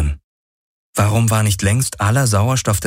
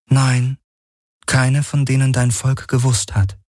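raised, detached AI voice; higher, otherworldly voice of a calm machine; the Helix, a machine mind; 6 semitones higher than usual. Acted.

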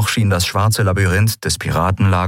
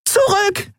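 a far higher, panicked scream; panicked cry. Acted. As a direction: shriek the warning in panic. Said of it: "schrie sie panisch".

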